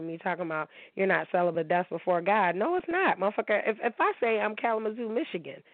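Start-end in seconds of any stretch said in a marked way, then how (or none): 2.5-5.6 sharp, much higher no, it's not; high-pitched indignant denial; indignant retort. Real, not acted. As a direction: shoot it down in disbelief. Arguing back at the agnostic.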